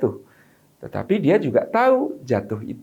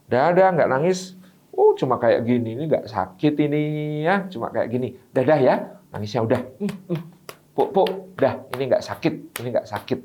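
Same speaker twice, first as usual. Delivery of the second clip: soothing mother. Retold or imitated. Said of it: "ibu-ibu ... kemudian mengatakan".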